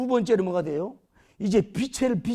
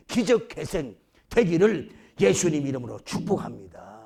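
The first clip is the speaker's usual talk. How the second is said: normal talking voice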